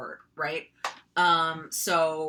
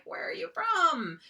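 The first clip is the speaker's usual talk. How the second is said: surprised question; 12 semitones higher than usual. Retold or imitated. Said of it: "And I was like".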